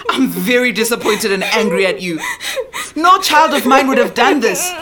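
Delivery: crying while scolding; tears breaking into the scolding; crying anger. Acted. Mother breaking down.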